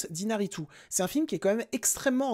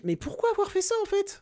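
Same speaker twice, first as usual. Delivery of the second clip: exasperated; 11 semitones higher than usual. Real, not acted. Exasperated question about faded colours.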